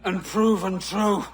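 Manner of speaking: loud, heated accusation building to a shout; angry shout. Acted. Turncoat shouts at his old captain over Nassau's fall. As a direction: throw his crimes back in his face.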